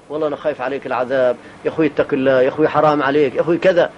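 low, fast, earnest plea to a brother; pleading with a brother. Acted. A preacher pleads with a careless brother, low and urgent. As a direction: beg him gently to fear God.

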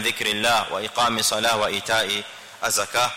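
Quran recitation. Real, not acted. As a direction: intone the Arabic verse like tilawa. Recites Quran verse in lesson. (usomaji wa Kurani kwa sauti ya tajwidi)

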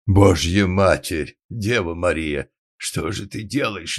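loud, slow, booming lady's voice; roaring in bass. A narrator's reading. Huge lady berating the organ grinder, booming roar. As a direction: bellow it like an outraged matron. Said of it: "дама заревела басом".

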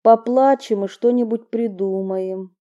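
soothing through tears; tearful. Acted. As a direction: voice thick with tears. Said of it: "влажным, набухшим от слёз голосом".

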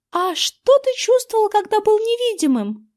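put-on high girlish curious question; curious girl asks about being invisible; young girl's voice. A narrator's reading. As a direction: voice Erin, eager to know. Narrator voices Erin.

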